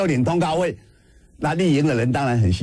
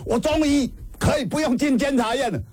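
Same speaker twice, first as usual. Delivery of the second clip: higher, light mock-cheerful imitation of the friend; quoting a friend; 10 semitones higher than usual. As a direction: lift the voice into his relieved glee. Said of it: "哎，他说". (轻快地模仿朋友)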